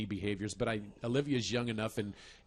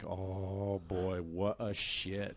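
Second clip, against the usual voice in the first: amused disbelief; 3 semitones lower, 3 dB quieter, much slower than usual. Retold or imitated. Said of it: "I was like".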